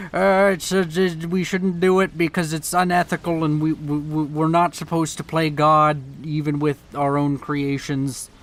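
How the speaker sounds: lightly voiced stammering moral objector; mock Christian academic. Imagined Christian university paper objecting to AI, lightly mocked with stammering. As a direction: stammer through a hint of a fussy objection. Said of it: "some Christian university that's like".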